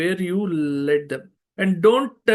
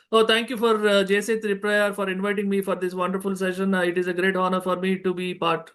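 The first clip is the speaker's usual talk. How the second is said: rushed; faster than usual. Shown as a demonstration. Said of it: "No, don't rush".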